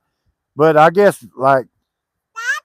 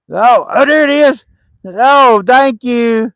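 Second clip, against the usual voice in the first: high-pitched, louder dog-praise voice; praising a dog; 8 semitones higher, 4 dB louder, slower than usual. Real, not acted. Praising dog returning the glove.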